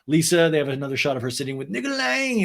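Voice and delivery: ordinary talk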